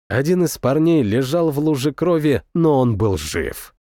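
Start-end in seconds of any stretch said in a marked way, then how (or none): none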